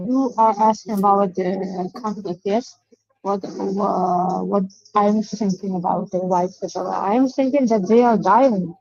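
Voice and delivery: muffled, like speaking into a cup; talking into a cup. Real, not acted. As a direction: voice boxed in by a cup. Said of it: "please stop talking into a cup".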